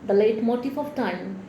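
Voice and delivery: solemn elegy read in measured phrases; deliberate poetic cadence; poem recital. Acted. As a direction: recite line by line, pausing after each image. Reads own poem aloud.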